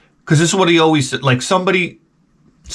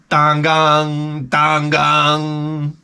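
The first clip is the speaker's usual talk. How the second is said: level, drawn-out ringing gong noise; imitated gong; much slower than usual. He pulls the string in the middle of the bed, imitated gong. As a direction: intone a long, ringing bell.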